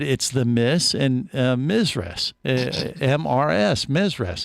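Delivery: slow Mizres, MIZ-ress with a z; retelling a friend's odd Mizres; imitating Jerry. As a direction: drawl out Mizres. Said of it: "and he said".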